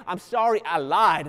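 put-on a child faking a choked apology; imitating crocodile tears. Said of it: "that little choke up in his voice".

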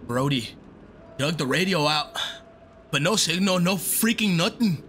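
attempted Scottish accent; badly faked Scottish accent. Gamer playfully mimicking the game's characters, shaky attempt at Scottish accent. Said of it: "I can't do a Scottish accent".

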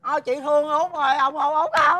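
whiny mock crying; tearful pleading; childish wailing. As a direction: bawl for sympathy like a child. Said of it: "Thôi, nín, nín".

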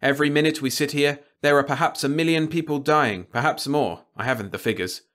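a reporter's impassioned, driving appeal; passionate plea. A narrator's reading. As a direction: hammer the moral stakes home. Radek, pleading passionately.

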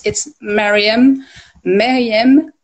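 Mariam said slowly as a demonstration; Muslim pronunciation. Shown as a demonstration. Guest explaining her name for the Muslims, careful pronunciation. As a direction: sound out Mariam clearly, drawn out. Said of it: "In, for the Muslims".

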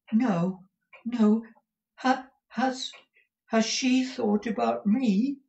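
high, halting, eager character voice; timid high-pitched wonder; Smike. A narrator's reading. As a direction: stammer the question in a high, hopeful voice. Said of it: "said Smike".

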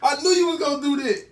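shrieking laugh, then loud; scream-laugh after being spat on; loud laughing shout. Real, not acted.

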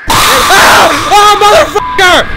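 very loud, high shout of shock; panicked screaming. Real, not acted. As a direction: yell in fright at a jump scare. Monster appears in horror game.

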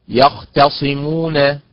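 يختصمون said slowly, leaning on the mim syllable; stress on the mim. Shown as a demonstration. Teacher demonstrating to students, slow stressed يختصمون. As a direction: stretch يختصمون and lean on the mim. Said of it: "إذن النبر على حركة الميم".

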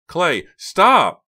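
high, loud desperate warning; panicked shout. A narrator's reading. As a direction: yell to stop the driver at once. Panicked passenger as crash looms.

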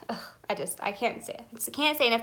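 nervous stutter; stumbling over words nervously. Real, not acted. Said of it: "I'm, like, stuttering".

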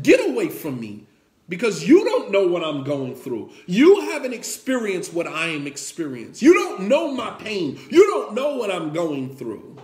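mildly heated protest, key words punched; acted hurt indignation, moderately forceful; retold grieving rebuff. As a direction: push the comforter away. Grieving woman rebuffs the Prophet, retold.

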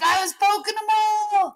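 put-on high, loud kid voice; excited little boy. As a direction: squeal it like a thrilled little boy. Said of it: "he's like".

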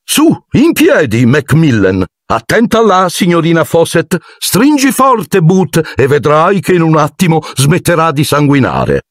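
high, bustling encouragement; fussy teacher. A narrator's reading. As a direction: flutter about reassuring everyone. Lockhart fusses over students. (insegnante agitato, voce alta)

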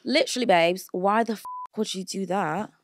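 put-on answering in a London accent. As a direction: slip into a cheeky London accent. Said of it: "that London accent is really good".

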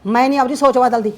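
loud, stubborn refusal; angry refusal. Acted. Mother-in-law refusing her daughter's modern clothes, loud and stubborn. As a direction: flatly shout that you won't change.

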